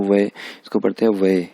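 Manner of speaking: वे as one syllable with a held vowel; pronouncing UI as वे. Shown as a demonstration. Teacher showing how the final UI is read, pronunciation demo. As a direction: hold the vowel of वे clearly. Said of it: "क्या pronounce करते हैं".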